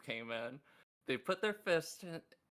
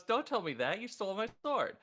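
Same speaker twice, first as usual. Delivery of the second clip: angry Cherry; 7 semitones higher, 4 dB louder than usual. Retold or imitated. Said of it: "She goes".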